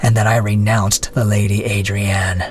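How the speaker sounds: contemptuous. Acted. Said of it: "replied the prisoner contemptuously".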